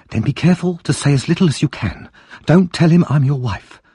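sharp wife voice. Acted. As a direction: warn him like a bossy wife. Wife warns husband.

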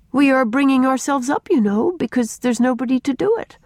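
put-on high-pitched, emphatic girl; earnest child explaining. A narrator's reading. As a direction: set out the rules in all seriousness. Child explains club rules to adults.

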